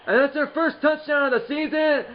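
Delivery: high, drawn-out, delighted cry; real joy, laughing through the call; touchdown call. Real, not acted. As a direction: celebrate the score like a broadcaster. Scores first touchdown.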